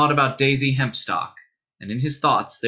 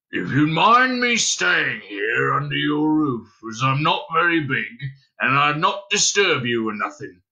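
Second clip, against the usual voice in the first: small hairy creature, humble. Acted. Hairy creature asking to stay under Dunstan's roof, humbly. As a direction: plead modestly as a little furry stranger.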